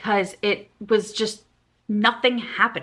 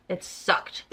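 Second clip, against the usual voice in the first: muttered verdict; 7 dB quieter than usual. Real, not acted. Verdict on book.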